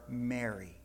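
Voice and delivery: soft, low, loving "Mary"; tender call. Acted. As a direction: say her name like a gentle caress. Jesus tenderly calls Mary's name.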